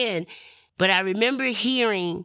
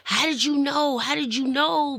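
excited disbelief; 9 semitones higher than usual. Retold or imitated. Woman at Bible study, overwhelmed that the pastor knew. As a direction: relive the shock, voice climbing. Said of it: "I just started screaming and crying".

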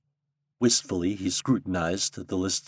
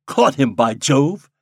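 gleeful; 5 semitones higher, 6 dB louder, slower than usual. A narrator's reading. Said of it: "he said, turning to his companion".

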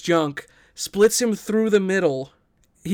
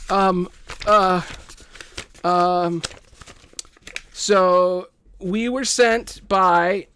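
hesitant nervous bandit; 3 semitones higher, much slower than usual. Acted. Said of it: "he's kinda nervous".

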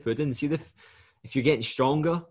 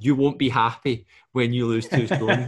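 laughing; 5 dB louder than usual. Retold or imitated. Telling client while laughing.

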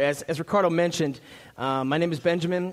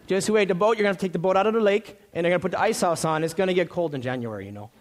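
mock Minnesotan warning; 3 semitones higher than usual. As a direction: warn them playfully like a local in Minnesota. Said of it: "So here's what we say in Minnesota".

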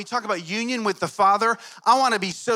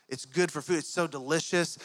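seductive hush; 3 semitones lower, 5 dB quieter than usual. Retold or imitated. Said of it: "Satan comes in and says".

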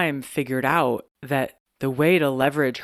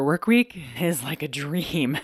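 laughing; slower than usual. Real, not acted. Laughing at the long work week.

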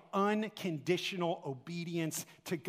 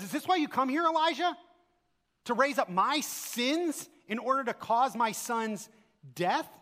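higher, pleading cry of a grieving mother; a mother accusing the prophet, higher and pleading; distraught widow; 4 semitones higher than usual. Retold or imitated. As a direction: plead as the widow who lost her son.

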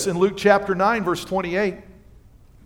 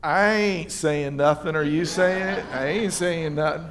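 secretive disciple; 4 semitones lower, 4 dB quieter than usual. Retold or imitated. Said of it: "it's one of those".

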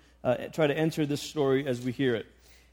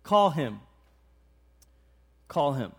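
kind, tender voice; 3 semitones lower than usual. Acted. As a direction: say it tenderly, with long pauses between. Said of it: "a kind voice, a tender voice".

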